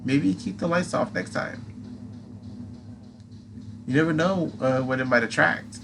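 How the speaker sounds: high squeaky moth creature; pixie. Acted. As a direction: tease in a tiny squeaky voice. Atlas voice.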